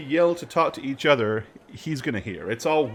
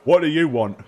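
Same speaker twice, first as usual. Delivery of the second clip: put-upon jailer, raised voice; exasperated guard; 3 semitones higher, 5 dB louder, faster than usual. Acted. Guard to another demanding prisoner, exasperated. Game master plays the guard.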